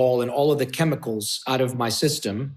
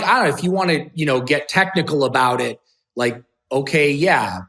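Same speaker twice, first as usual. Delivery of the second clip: defensive; 4 semitones higher, 5 dB louder than usual. Retold or imitated. Cornered, argues with friend's questioning.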